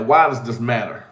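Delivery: ordinary delivery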